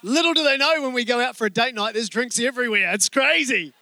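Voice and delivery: sheepish confession. Real, not acted. Confessing date night drinks.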